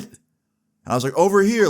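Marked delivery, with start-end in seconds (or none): 1.1-1.7 yelling across. Retold or imitated. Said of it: "I yelled over to him".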